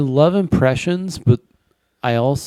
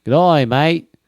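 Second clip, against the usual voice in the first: loud, broad Australian impression; Australian accent; 3 semitones higher, 5 dB louder than usual. Australian asking a mate for meth, Australian accent. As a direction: play a mock Aussie asking a mate. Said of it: "my impression of an Australian person".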